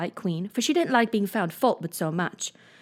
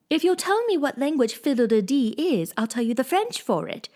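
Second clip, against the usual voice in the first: triumphant; 5 semitones higher than usual. Acted. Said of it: "she exclaimed triumphantly".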